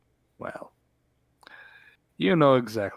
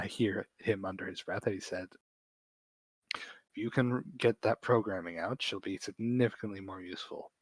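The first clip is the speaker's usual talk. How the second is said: hushed, much softer secret aside; whispering aside; 3 semitones lower, 5 dB quieter than usual. Acted. Bird patron whispering a warning to Doc M. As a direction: lean in and whisper it so others can't hear. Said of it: "leans back over to Running Fane and whispers".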